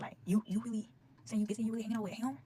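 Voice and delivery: whispered, breathy accusation; quiet, pointed whisper at the friend; hushed accusation. Retold or imitated. Confronting friend in retold quote.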